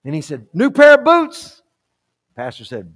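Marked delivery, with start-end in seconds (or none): 0.5-1.6 high, slow, rising question; intrigued surprise. Acted. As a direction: perk up at a tempting bribe. Gary tempted by the offer.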